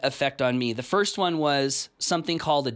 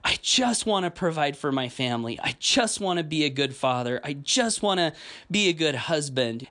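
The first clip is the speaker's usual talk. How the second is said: sincere prayer. Retold or imitated. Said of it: "one of the most sincere prayers I've ever offered".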